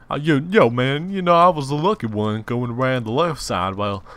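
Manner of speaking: loud, high-pitched retelling; high excited voice. Pretend. Gamer boasting of being the lucky one, high excited voice.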